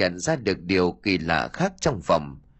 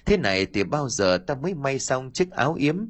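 put-on lightly mincing girlish voice; a hint of a coy young girl; man doing a woman's voice; 3 semitones higher than usual. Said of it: "Gã nói giả giọng con gái òn ẻn".

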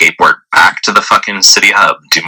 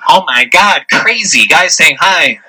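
high, drawn-out mocking panic; mock fear; 9 semitones higher, slower than usual. Mimicking girls who scurry from his hello, mock fear. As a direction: imitate a scared girl, pitched way up. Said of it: "in their fear".

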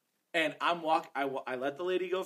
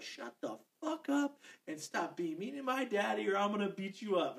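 mild mock yell, a bit higher; retold yell; 5 semitones higher, 3 dB quieter than usual. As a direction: imitate a child's yell without full volume. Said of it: "she fucking yelled".

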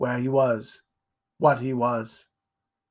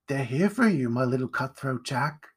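tender mother. Acted. Mother to son, falsely tender. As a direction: coo it tenderly with menace. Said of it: "tenderly brushing air from his face".

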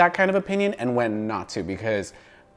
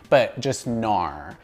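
slow Australian "nar"; Australian accent; 3 semitones lower, much slower than usual. Shown as a demonstration. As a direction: draw out "nar" like an Aussie. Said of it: "just nar".

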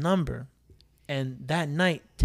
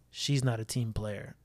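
put-on slow, lower, softer drunk mumble; drunk friend; 6 semitones lower, 6 dB quieter, slower than usual. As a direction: drag it out like a tipsy guy sulking. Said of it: "looks at me with his drunken eyes and goes".

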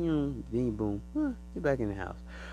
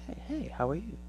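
high soft alien greeting; a friendly alien saying hello; 7 semitones higher, 5 dB quieter than usual. Retold or imitated. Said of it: "It says".

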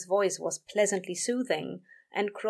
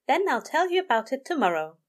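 higher-pitched earnest assurance; earnest promise; 6 semitones higher, 3 dB louder than usual. A narrator's reading. Aziraphale promises sleepy Crowley, earnestly. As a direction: promise sincerely, voice lifted. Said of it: "the angel promised earnestly".

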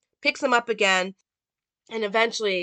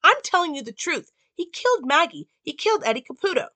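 desperate Karen; 8 semitones higher, 3 dB louder than usual. Retold or imitated.

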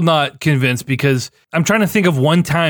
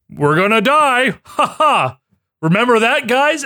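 mock over-the-top Tyrion; 8 semitones higher, slower than usual. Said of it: "it was so over the top".

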